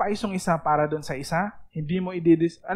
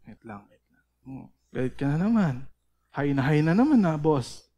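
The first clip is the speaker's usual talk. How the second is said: teasing yourself. Shown as a demonstration. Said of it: "dapat ginagawa niyo yun".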